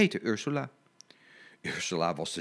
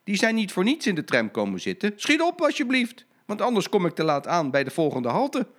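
higher, louder pleading that climbs; impatient conductor; 7 semitones higher, 3 dB louder than usual. Acted. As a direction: hurry him up, rising urgency. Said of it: "riep de conducteur".

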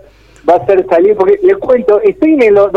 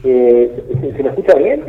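in the bathroom. Real, not acted. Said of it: "Se lo escucha raro, eh, se escuchan sonidos".

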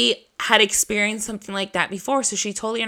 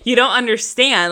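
exasperated retort; 3 semitones higher, 4 dB louder, slower than usual. Retold or imitated. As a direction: mock-desperate insistence, drawn out, rising high. Acted argument with mom.

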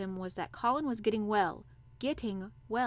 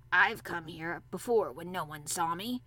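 put-on old Yorkshire gardener; 3 semitones lower, 3 dB louder than usual. A narrator's reading.

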